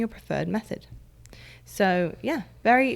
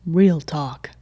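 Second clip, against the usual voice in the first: put-on American accent; 2 semitones lower, 4 dB louder than usual. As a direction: say it like an American host. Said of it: "American accent".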